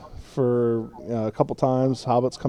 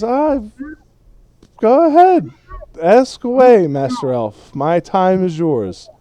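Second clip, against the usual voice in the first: put-on high, loud, grandly drunken hobbit; magnanimous tipsy hobbit; 9 semitones higher, 9 dB louder than usual. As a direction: grant permission with loud tipsy flourish. Game master plays tipsy Frodo.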